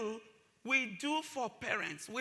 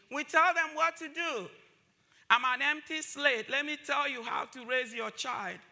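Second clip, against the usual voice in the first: mock condescension; 4 semitones higher, 6 dB louder than usual. Mocking what schools tell parents.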